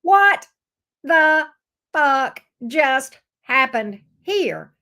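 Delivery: loud, slow, drawn-out outrage; outraged disbelief. Acted. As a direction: stretch every word in disbelief. Gemini's outraged reaction voiced.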